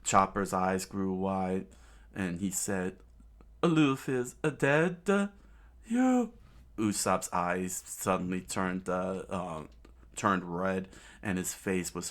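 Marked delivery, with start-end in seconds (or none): 3.6-6.3 high, stunned disbelief; shocked gasp. Acted. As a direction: blurt it out in shock. Chopper shocked at the news.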